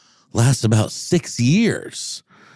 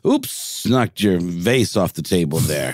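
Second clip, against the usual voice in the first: smiling menacing loan shark. Acted. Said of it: "kind of a loan sharky kind of way".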